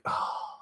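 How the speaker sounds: breathy, unvoiced "oh" of exhaustion; soft exhaled "oh"; acted sigh. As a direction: let out a spent, acted sigh. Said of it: "she's just like".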